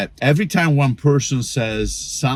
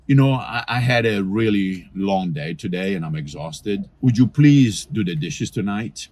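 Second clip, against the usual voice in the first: gentle request. Shown as a demonstration. Tired spouse gently asking partner to do dishes. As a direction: ask nicely after a long day. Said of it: "Do you hear the difference?".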